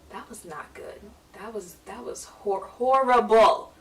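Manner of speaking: a hint of a disappointed father; blunt dad verdict. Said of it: "my dad turns around and goes".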